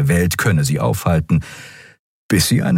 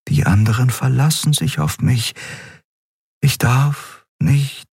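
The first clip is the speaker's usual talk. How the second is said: higher, slowing as sleep takes her; drowsy woman pleading with herself, fading; fading drowsy plea; 6 semitones higher than usual. Acted. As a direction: mutter it while drifting off.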